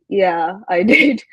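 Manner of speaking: amused, laughing "I did"; laughing reply. Real, not acted. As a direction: answer through a laugh. Laughing at friend's question.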